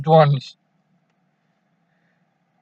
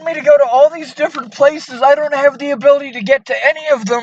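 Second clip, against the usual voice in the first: rushed; 3 semitones higher than usual. Real, not acted. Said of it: "you need to talk slower so I can hear you".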